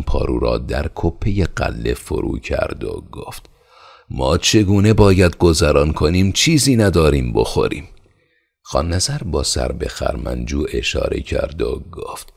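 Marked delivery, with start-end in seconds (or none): 4.1-7.9 loud, high, angry outburst; furious. Acted. Elder son raging at the khan over their hunger. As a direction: hurl the words in rage. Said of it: "با خشم تمام".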